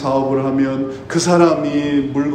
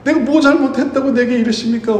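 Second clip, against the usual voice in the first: a raised, pleading cry to God, lightly acted; mock-anguished complaint, not fully wept; anguished why me; 7 semitones higher than usual. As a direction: beg God why, voice lifted. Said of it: "Why me?"라는 용어가 있어요".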